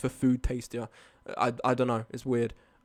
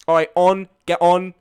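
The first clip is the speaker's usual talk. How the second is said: demanding bus driver; 9 dB louder, slower than usual. Retold or imitated. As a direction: boss everyone onto the bus. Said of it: "he was really demanding".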